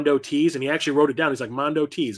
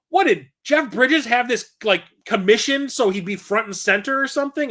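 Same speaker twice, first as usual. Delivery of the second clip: really annoyed, angry, pitched-up protesting tone; 8 semitones higher, 3 dB louder than usual. Retelling how the signer reacted to the poster: imitating someone really mad. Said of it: "really mad".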